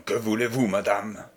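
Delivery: légère rudesse, question sèche au ton bas; un vieux noble bourru qui interroge; rudement. Acted. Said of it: "Rudement, il demanda". (le connétable interroge la femme, rudement mais sans crier)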